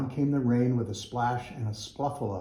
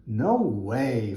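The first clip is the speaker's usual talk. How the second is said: huffy refusal; 4 dB louder than usual. Acted. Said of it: "Fluffalo huffaloed".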